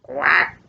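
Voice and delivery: lightly imitated duck quack. A narrator's reading. Storyteller voices the duck at the pond, short quack. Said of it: "says the duck".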